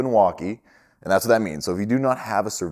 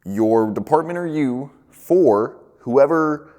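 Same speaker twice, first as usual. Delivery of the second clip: slow, higher, louder radio call; 6 semitones higher, 5 dB louder, slower than usual. Shown as a demonstration. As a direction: call out over the walkie as if hailing a crew member. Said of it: "But you will say".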